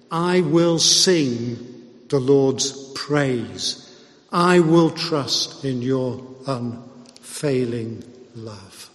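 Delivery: "I" leaned on in "But I trust" and "I will sing", slow; stress on I. Shown as a demonstration. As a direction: press every "I" firmly. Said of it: "the I's here are emphatic".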